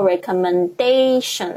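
recommendation 重音在 da 的 A 上; 把 recommendation 的 A 音节读重; stress on the A. Shown as a demonstration. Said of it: "那个重音又会在那个A上面". (重音落在 recommendation 的 A 上)

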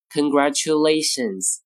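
"congratulations" with tu said as "choo"; third syllable "chu". Shown as a demonstration. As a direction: say "congratulations" as con-gra-choo-LAY-shuns. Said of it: "或者chu".

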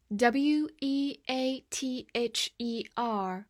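letters spelt out slowly; slow spelling. Shown as a demonstration. Teacher spells the word slowly for the class.

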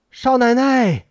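high call, moderately loud; calling out loudly. A narrator's reading. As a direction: summon someone from another room. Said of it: "钱先生高声地喊".

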